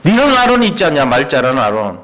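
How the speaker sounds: preacher half-acting an annoyed God scolding Moses; lightly voiced God scolding Moses; mock angry God. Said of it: "화냅니다".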